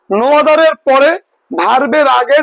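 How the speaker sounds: slow, deliberate teacher repeat; slow emphatic repeat. Shown as a demonstration. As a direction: say no other-এর পরে very slowly, each word drawn out. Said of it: "শোনো".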